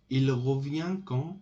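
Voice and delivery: rising tune up to QUAND; question intonation. Shown as a demonstration. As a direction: ask it with the voice lifting on "quand". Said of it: "With intonation".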